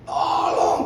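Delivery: whispered, breathless tolong; weak call for help. Retold or imitated. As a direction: call out with no voice left. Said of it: "teriak lagi lebih keras". (bisikan minta tolong)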